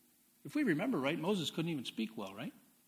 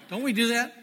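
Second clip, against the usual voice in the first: excited question; 7 semitones higher, 10 dB louder than usual. Real, not acted. Preacher asks congregation, amused.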